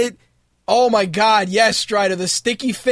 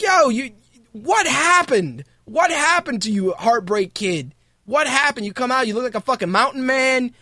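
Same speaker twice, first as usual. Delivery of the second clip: high, incredulous mock outrage; mocking rant; 3 semitones higher than usual. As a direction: rib him, voice jumping up in disbelief. Mocking Michaels's look.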